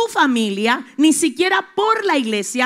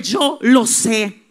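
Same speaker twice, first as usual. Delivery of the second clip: Jesus reassuring, building; 4 semitones higher, 4 dB louder than usual. Acted. Jesus speaks to those weeping, building to a shout. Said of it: "Jesús viene hoy a decirte".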